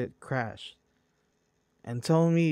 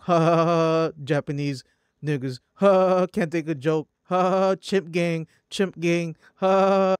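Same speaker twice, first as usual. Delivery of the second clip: mock cackling chatters, pitched up and louder; mocking laughter; 3 semitones higher, 4 dB louder than usual. Mimicking chat users laughing off a tragedy, mocking cackle. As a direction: jeer and laugh like trolls in chat.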